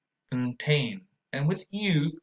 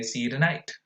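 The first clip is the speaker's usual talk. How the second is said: fast connected speech; faster than usual. Shown as a demonstration. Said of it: "In fast connected speech".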